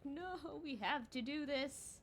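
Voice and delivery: high, building to a loud frantic yell; mock insistent. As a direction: refuse the program, rising to a panicked shout. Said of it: "And I'm like".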